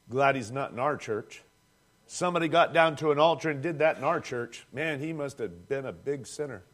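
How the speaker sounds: low, dry mock scorn; sarcastic mockery. Preacher mimicking judgmental churchgoers, in dry sarcastic scorn. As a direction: sneer like a smug churchgoer.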